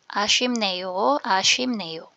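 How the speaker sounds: 아쉽네요 said clearly as "a-shwim-neyo"; careful pronunciation. Shown as a demonstration. Teacher goes through the word for learners, careful pronunciation. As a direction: model 아쉽네요 with an m sound before "neyo". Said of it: "Yan po yung ating pronunciation".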